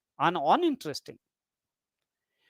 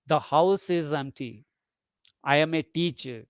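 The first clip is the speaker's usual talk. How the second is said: lower, softer statement settling down on "empty" and "teacher"; falling tone; 5 semitones lower, 3 dB quieter than usual. Shown as a demonstration. Teacher giving ordinary statement examples, falling tone on "empty" and "teacher". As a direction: let "empty" and "teacher" drop, without emotion. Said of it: "falling tone".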